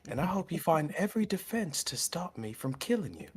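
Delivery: menacing whisper; whispered threat. Acted. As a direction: hiss the threat softly.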